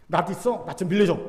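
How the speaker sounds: blunt Gyeongsang-style request; 직설적인 경상도 말투. Acted. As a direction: ask it straight out, no preamble. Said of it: "직설적으로 말한답니다". (무뚝뚝하고 직설적인 경상도식 말투)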